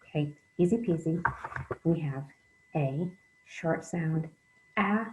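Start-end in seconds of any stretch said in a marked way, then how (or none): 2.8-4.3 A said as the short sound; teacher modelling short A; short vowel sound. Shown as a demonstration. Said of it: "their short sound and their long sound". 4.8-5.1 A said as the long sound, like its name; teacher modelling long A; long vowel sound. Shown as a demonstration. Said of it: "long sound".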